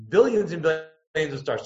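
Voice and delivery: a hint of Carl Sagan marvelling at the cosmos; lightly voiced Carl Sagan accent, not British. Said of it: "in this very distinct accent".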